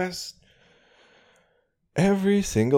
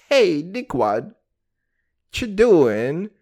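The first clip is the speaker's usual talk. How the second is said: retold yell; 3 semitones higher, 5 dB louder, much slower than usual. Yelling at neighbor.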